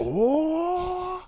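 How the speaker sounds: high drawn-out "Oh" like powering up; power up scream. Shown as a demonstration. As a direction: charge up like an anime hero. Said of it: "You be like".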